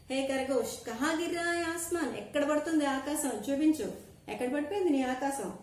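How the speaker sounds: loud, high demanding questions; lion asking loudly. Acted. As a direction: press the rabbit hard as the king. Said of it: "గట్టిగా అడిగింది షేర్".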